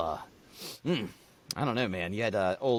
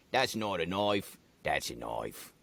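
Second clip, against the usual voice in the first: lightly done New Zealand accent, slower and lower; a mild attempt at a deeper Kiwi voice; 8 semitones lower, 6 dB quieter, slower than usual. Shown as a demonstration. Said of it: "if I was to do it in Kiwi".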